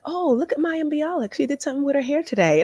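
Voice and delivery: high mock voice of her husband; imitating husband. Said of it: "He was like".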